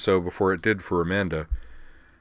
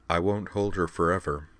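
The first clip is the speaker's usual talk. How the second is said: deadpan; 3 dB quieter than usual. Acted.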